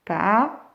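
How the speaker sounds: Parasol as pa... ra... solllll, long gaps; split, drawn-out L. Shown as a demonstration. Teacher showing where L is, Parasol split with held ending. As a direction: pause between syllables, hold the final L of "Parasol". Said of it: "où c'est que j'entends L".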